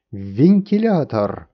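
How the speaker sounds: slow, loud chorus of winds repeating; winds echoing. A narrator's reading. Winds repeating the king's sentence together, slow loud echo. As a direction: echo the verdict like a howling crowd. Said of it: "повторили ветры".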